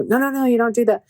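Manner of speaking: lightly acted stern stop; firm protest retold. He jumped up, stopped her.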